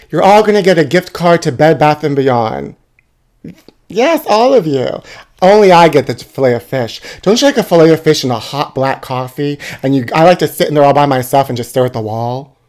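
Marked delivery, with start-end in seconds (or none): none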